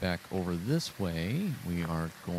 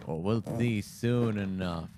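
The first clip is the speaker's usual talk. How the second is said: mustache twirling villain. Pretend. Ominous tease to the ghost.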